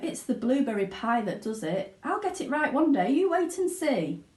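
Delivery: Mr Wonka. Acted. Wonka explains the faulty dessert, rueful. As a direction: shrug off the failure. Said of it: "sighed Mister Wonka".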